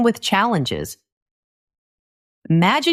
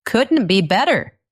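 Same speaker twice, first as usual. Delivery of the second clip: super enthusiastic; 3 semitones higher than usual. Shown as a demonstration. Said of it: "super enthusiastic phrase".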